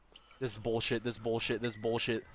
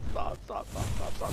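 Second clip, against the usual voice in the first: whispering. Real, not acted. Panicked whispering while hiding.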